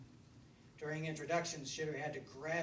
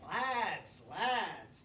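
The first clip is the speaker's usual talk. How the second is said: higher and louder, sharp calls; yapping fox; 4 semitones higher, 8 dB louder than usual. Acted. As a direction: yap at the lads to get their attention. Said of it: "the fox yapped".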